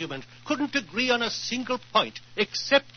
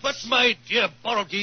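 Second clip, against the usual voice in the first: raised protest. Acted. Diplomat shouting back at the Russian envoy. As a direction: shout him down in argument. Heated political argument.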